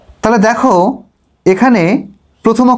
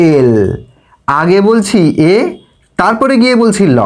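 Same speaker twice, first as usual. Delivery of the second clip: এ drawn out slowly as the first sound of এল. Shown as a demonstration. Teacher slowly shows এল begins with এ.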